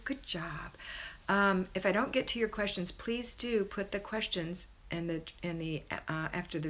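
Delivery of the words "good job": whispered praise; soft whispered good job. Real, not acted. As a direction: whisper it like a secret compliment. Praising a viewer softly.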